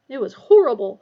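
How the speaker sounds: "It was horrible" said high and loud. A narrator's reading. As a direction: shaken and high-pitched. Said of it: "said Neville in a higher".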